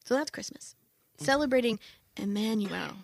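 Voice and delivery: radio evangelist voice. Shown as a demonstration. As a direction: preach it like a gentle radio evangelist. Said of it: "I'm gonna put my radio evangelist voice on".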